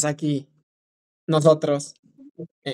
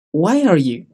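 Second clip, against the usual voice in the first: "Why are you?" linked as one unit, falling; words joined; 3 dB louder than usual. Shown as a demonstration. Teacher corrects the separated version, words joined. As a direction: glide straight through "Why are you?" without gaps. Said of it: "No lo hay que separar".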